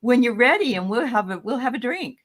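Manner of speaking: hearty mock invitation; jovial brother inviting. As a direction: call her over like a brother pouring cocktails. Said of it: "He's saying".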